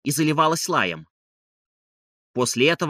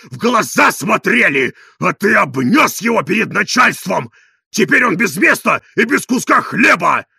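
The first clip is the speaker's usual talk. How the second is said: loud, higher angry tirade; shouting; 5 semitones higher, 7 dB louder than usual. A narrator's reading. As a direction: rant at him at full volume. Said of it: "кричите так?".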